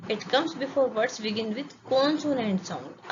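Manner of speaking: very slow, word by word; धीरे धीरे लिखवाते हुए; slow dictation. Shown as a demonstration. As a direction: read it out slowly so students can write. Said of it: "अब देखते हैं indefinite article".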